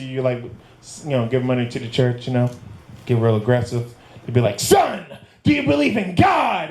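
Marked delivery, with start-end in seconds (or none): 4.6-6.7 preacher voice. Retold or imitated. Church man questioning the comic.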